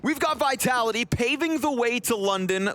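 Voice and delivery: rising, pumped caster call; excited caster call. Real, not acted. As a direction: build the hype on this one. Hype caster line.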